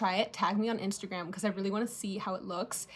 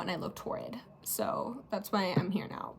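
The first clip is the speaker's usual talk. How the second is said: whispering; 3 semitones lower, 6 dB quieter than usual. Real, not acted. Aside about the old shade.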